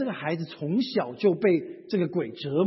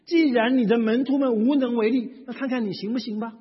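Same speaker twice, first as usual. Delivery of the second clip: louder, higher start, tossed-off ending; half-believing; 4 semitones higher, 3 dB louder than usual. Acted. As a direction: voice a doubter's mildly sarcastic challenge. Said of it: "显然我们是什么？ 半信 半疑".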